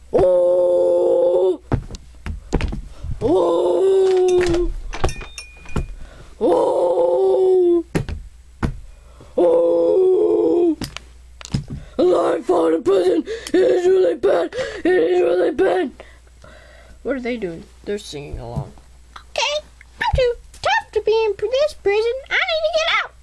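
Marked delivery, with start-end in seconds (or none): 0.1-15.9 fake crying. Crying prisoner. 19.2-23.1 very high, fast squeak; high squeaky voice. Acted. Squeaky prisoner voice.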